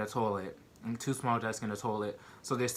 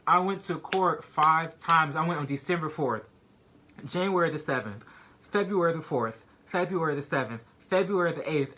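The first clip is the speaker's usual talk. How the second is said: raised pitch, each date punched; emphatic protest; 4 semitones higher, 4 dB louder than usual. Retold or imitated. Insisting to cellmates she went to court, emphatic. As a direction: reel off each date as proof.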